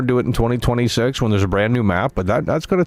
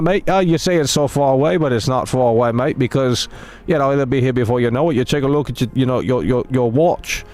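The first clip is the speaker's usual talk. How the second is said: mock British accent. Streamer teasing his chat in a mock British accent. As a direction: play a cheeky British lad with a mock accent, pitched up. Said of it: "they get mad that I'm making the voice".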